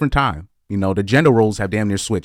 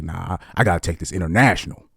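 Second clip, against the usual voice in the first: mock hustler pastor; 4 semitones lower, 3 dB quieter than usual. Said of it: "they're like".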